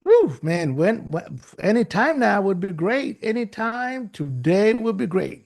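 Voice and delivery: a light touch of sarcastic impatience; American sarcasm. Retold or imitated. American friend teasing Dennis, lightly sarcastic. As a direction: needle him with mild sarcasm. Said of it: "American sarcasm".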